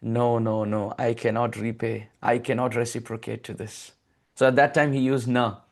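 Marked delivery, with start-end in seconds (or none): 0.0-3.9 bow your head and admit the debt; humble plea with folded palms. Acted. Krishna with folded palms to the gopis, humble and soft. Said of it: "With folded palms".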